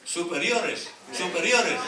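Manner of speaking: loud, high, laughing correction; laughing repeat. Real, not acted. Pastor correcting the verse for the congregation, laughing and loud. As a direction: laugh it out as you fix the word.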